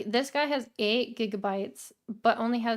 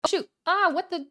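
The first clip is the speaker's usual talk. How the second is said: surprised; 7 semitones higher, 6 dB louder, faster than usual. Real, not acted. Screen glitch startles streamer.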